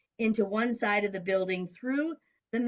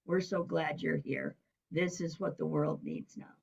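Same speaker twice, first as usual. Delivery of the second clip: hushed but voiced, softer; imitated whisper; 3 semitones lower, 5 dB quieter than usual. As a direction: confide it softly, as if into someone's ear. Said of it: "make those whispers in my ear".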